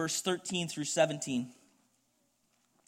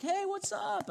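casual greeting; slower than usual. Retold or imitated. Greeting a buddy at party.

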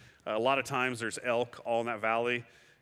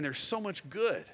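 tender; 5 semitones higher than usual. Shown as a demonstration. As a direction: let it land gently. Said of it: "repeated for emphasis".

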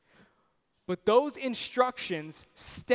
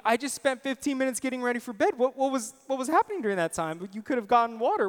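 mock exasperated inner rant, higher and fast; frustrated thoughts; 4 semitones higher, faster than usual. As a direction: replay his irritated bedtime grumble, half joking. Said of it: "I'm thinking, frustration on my face".

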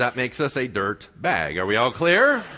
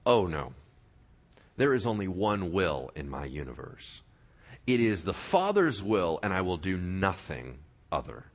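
lower, quiet and settled; steady refusal of the tempter; calm Jesus reply; 9 semitones lower, 5 dB quieter than usual. Acted. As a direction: answer firmly and without hurry. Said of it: "How did Jesus respond?".

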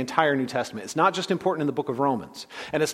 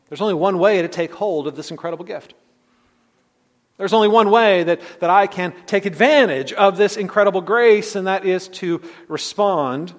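louder, building to full preaching force; swelling sermon crescendo; rising preaching intensity; 5 semitones higher, 7 dB louder than usual. Acted. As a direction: drive it home from the pulpit, building.

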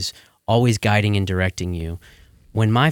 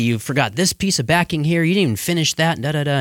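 higher, mock-stern scolding of a son; scolding dad; 7 semitones higher than usual. Dad on a construction job chewing out his teenage son, mock-stern. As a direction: play the irritated dad pointing out sloppy work. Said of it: "got on to me".

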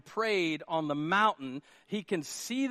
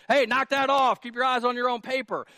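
raised, loud mock scolding; teacher yelling; 5 semitones higher, 6 dB louder than usual. Pastor acting teacher at kid during test, mock yell. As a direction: call out sharply like a teacher catching a cheat. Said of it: "you're yelling at the kid".

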